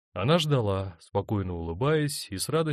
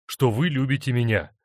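impatient; 5 semitones higher, 6 dB louder than usual. A narrator's reading. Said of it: "воскликнул он нетерпеливо".

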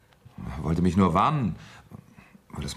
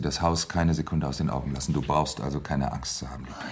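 soothing whisper; 5 semitones lower than usual. Acted. Husband reassuring his frightened wife, in a soothing whisper. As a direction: whisper to calm her fear.

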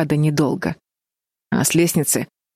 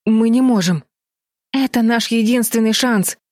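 raised, higher-pitched urgent protest; insistent cry; 6 semitones higher than usual. A narrator's reading. Бетти urges her sisters toward the window, insistent cry. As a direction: insist on it with mild alarm. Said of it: "закричала Бетти".

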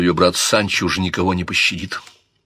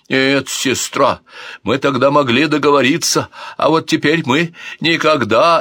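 higher, loud tearful protest; tearful prince; 6 semitones higher, 4 dB louder than usual. Acted. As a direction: sob it out in despair. Alfonso weeping.

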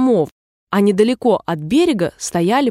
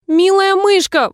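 higher, louder slow call after the mouse; pleading call; 10 semitones higher, 4 dB louder, slower than usual. A narrator's reading. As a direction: call the mouse back across the pond. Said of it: "воскликнула Алиса".

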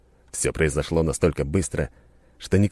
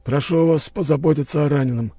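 calm commanding host; 9 semitones higher than usual. A narrator's reading. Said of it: "спокойный, но властный голос".

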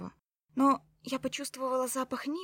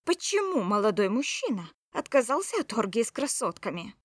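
mock surprise; 6 dB louder than usual. Mocking fake surprise.

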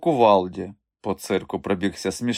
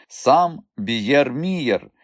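grand announcement; 4 semitones higher, much slower than usual. Acted. Champion's name announced.

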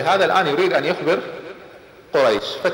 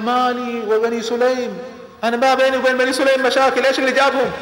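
startled protest; 8 semitones higher than usual. Acted. Abu Sufyan startled by the tribe.

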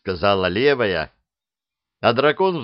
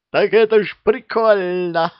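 high, louder giggly beast voice; laughing; 11 semitones higher, 5 dB louder than usual. A narrator's reading. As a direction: laugh it out like a merry monster. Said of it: "засмеялась левая".

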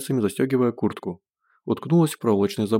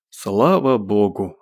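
slow, louder cry of relief; relieved exclamation; 4 dB louder, much slower than usual. Acted. Gosh, slapped by Zhenya, cries out in loud slow relief. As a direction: let the relief out, drawn out and loud. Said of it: "облегчённо воскликнул он".

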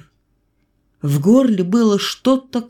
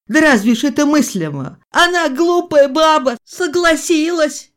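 put-on whining old woman; 3 semitones higher, 4 dB louder than usual. A narrator's reading. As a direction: moan it like a stubborn grandmother. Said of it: "и голос заныл".

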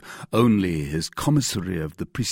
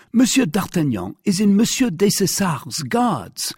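high, loud, agitated argument, peaking at the end; insistent cry; 10 semitones higher, 6 dB louder than usual. A narrator's reading. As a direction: argue excitedly to convince the official. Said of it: "cried Bonacieux in his turn".

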